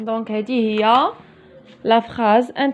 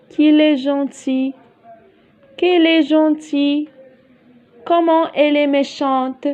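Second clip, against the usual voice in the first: exclamative tone; 3 semitones higher than usual. Shown as a demonstration. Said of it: "on fait une phrase exclamative".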